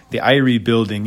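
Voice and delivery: bad Jamaican accent. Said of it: "it's a terrible Jamaican accent".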